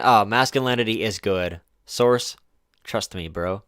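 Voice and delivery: mocking paraphrase. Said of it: "other than".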